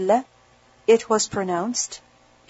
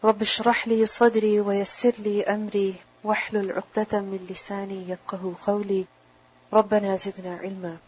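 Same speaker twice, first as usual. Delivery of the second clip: rapid opening prayer; much faster than usual. Real, not acted. Opening prayer recited before lesson.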